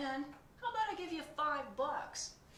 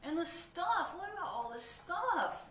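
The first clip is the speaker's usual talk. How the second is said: high, loud panicked questions; panicking pigeon; 8 semitones higher, 11 dB louder, slower than usual. Acted. Pigeon panics about learning, high and loud. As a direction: spiral into kid panic.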